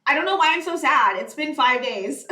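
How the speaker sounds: a playful mock lament; retold outburst. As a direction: replay her own dramatic complaint to a friend. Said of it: "I was like".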